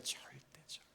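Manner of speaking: barely audible whispered echo; very soft, under the breath; hushed repetition. Real, not acted. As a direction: drop to a near-silent whisper. Hushed echo of emphatic denial.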